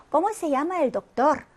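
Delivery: the Spanish question read very slowly, word by word; slow model reading. Shown as a demonstration. Teacher reading an example question to students, very slow. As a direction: read it out slowly so learners can follow. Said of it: "그래서".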